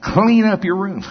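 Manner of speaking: mock-stern command to a child; laying down the law. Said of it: "Here comes the law".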